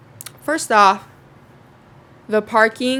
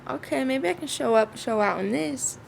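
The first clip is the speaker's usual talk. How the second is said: high, excited pep talk to herself; sassy self-encouragement; 6 semitones higher, 3 dB quieter than usual. Retold or imitated. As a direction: hype yourself up in the mirror. Hyping herself up in quote.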